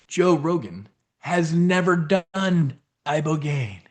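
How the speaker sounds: slow, lightly presidential-sounding delivery; Donald Trump. Real, not acted. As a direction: draw it out, a hint of a famous politician. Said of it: "I sounded like Trump".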